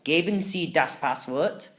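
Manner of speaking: slow German machine voice. Acted. Keypad demanding the password, in slow machine German. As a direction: speak it like a slow door machine.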